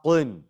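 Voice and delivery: thick, dark qaf in "qin"; super heavy qin. Shown as a demonstration. Teacher shows what to avoid, super heavy qin. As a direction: overdo the heaviness on qin. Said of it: "Don't try to make it super heavy".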